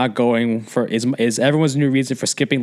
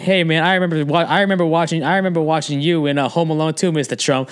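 lightly voiced starstruck fan, pitched up; eager fan; 4 semitones higher than usual. Fan greeting the president, lightly gushing. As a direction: put on a hint of an excited fan.

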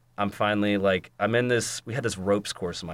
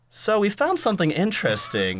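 ominous doctor; 11 semitones higher than usual. Retold or imitated. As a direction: play the doctor dropping a bombshell. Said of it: "is like".

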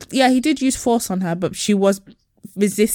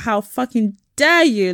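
outraged Karen; 2 semitones higher than usual. Retold or imitated. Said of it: "the way she looked at him".

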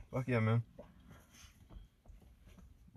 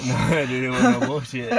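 emphatic; 3 semitones higher, 11 dB louder than usual. Real, not acted. Insisting about the strong coffee.

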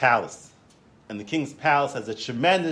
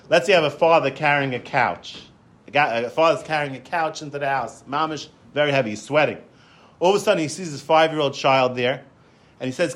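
usual speaking voice

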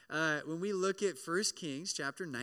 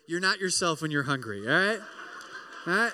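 God coaxing; 8 dB louder, faster than usual. Retold or imitated. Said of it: "he says".

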